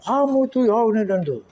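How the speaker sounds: mock angry grumbling. Village grandpa scolding the boys at length, mock angry. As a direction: imitate a grumpy elder telling someone off. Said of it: "Dia kalau marah lama".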